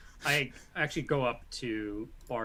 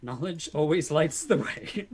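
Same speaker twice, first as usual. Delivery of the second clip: slower, louder, higher recitation of a motto; emphatic repeat; 4 semitones higher, 6 dB louder than usual. Acted. Player's character repeats his motto for others to hear, slow and emphatic. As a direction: proclaim it slowly, lifting the pitch.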